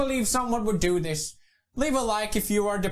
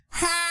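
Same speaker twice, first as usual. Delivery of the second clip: short sharp war cry; hammed-up warrior yell; battle cry; 4 semitones higher than usual. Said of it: "That's my battle cry".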